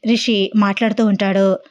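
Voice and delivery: ordinary delivery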